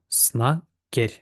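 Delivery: "снакер" with low first syllable, rising on the second; low then up. Shown as a demonstration. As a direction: start "снакер" low and step up. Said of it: "А потім ми йдемо вверх".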